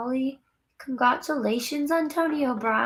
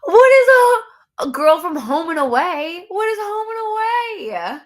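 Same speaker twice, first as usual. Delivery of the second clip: higher and louder, startled question; surprised; 7 semitones higher, 9 dB louder than usual. Real, not acted. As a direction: react with disbelief. Surprised by comment.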